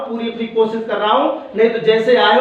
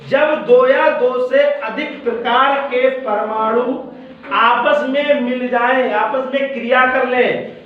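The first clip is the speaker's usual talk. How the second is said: measured, phrase-by-phrase definition with pauses; deliberate teacher's model sentence, left open at the end; slow dictation; slower than usual. Shown as a demonstration. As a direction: recite it slowly for pupils to follow. Teacher models definition for pupils to complete.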